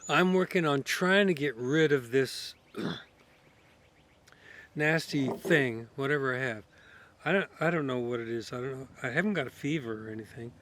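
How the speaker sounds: sick, hoarse with a cold. Real, not acted. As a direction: talk through a head cold. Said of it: "sorry for all my coughing and s-, my voice".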